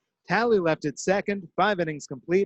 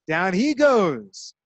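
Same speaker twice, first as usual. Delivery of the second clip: drawn-out strikeout call; 3 semitones higher, 5 dB louder, much slower than usual. Real, not acted.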